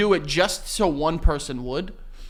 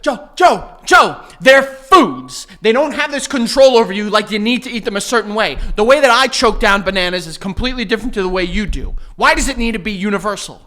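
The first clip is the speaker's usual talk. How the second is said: heated rant; 3 semitones higher, 6 dB louder than usual. Real, not acted. Heated rant about bananas.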